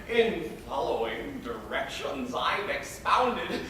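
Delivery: pompous old guardian lecturing in verse, lightly voiced; a self-satisfied tutor laying down the law; Arnulf. Arnulf lecturing his young ward on suitors, smug and preachy. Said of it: "I was to play the character of".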